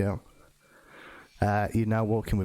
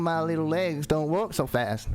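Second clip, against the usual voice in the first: higher dwarf voice, complaining; put-on high voice of a little dwarf; 4 semitones higher than usual. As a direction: plead as a short-legged dwarf. Dwarf asks companion to slow down.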